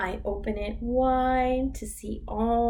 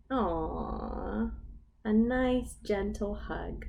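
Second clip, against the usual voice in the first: tender aw; 4 dB quieter, slower than usual. Acted. Tender approval.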